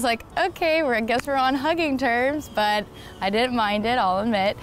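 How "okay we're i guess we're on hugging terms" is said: higher-pitched, mildly taken-aback inner voice; surprised acceptance. Retold or imitated. Woman reacting to his unexpected hug, surprised acceptance. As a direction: imitate her own thought, lifted on "Okay".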